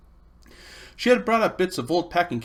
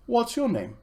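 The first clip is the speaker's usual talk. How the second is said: Polly; 9 semitones higher than usual. Acted. Polly's voice in read story.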